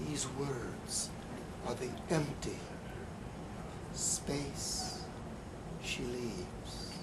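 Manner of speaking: slow, hushed poetry reading, long pauses between phrases; poem reading. Acted. Poet reads his poem aloud.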